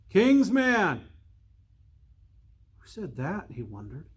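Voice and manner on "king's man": new voices. Acted. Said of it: "These were new voices".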